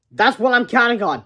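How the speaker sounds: smug schemer; devilish grin. Acted. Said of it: "with a devilish grin".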